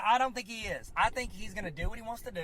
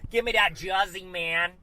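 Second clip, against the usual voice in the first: put-on a loose, louder Brooklyn accent on Jersey; 6 dB louder than usual. Showing off his best Brooklyn accent, loud Brooklyn accent. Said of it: "That's my best Brooklyn accent".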